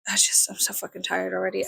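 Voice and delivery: unvoiced, hushed complaint; tired whisper. Real, not acted. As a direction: breathe it out, worn out. Exhausted early morning aside.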